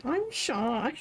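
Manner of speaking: a light mock-shy voice; quoting a singer, shy. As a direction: play a bashful friend, lightly. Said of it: "quoting Jimin".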